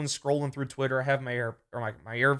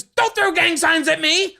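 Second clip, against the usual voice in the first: high loud mock yell; retold scream; 12 semitones higher, 8 dB louder, slower than usual. Imitating the homeless man screaming the accusation. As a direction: yell it like a paranoid stranger. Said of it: "And he screams".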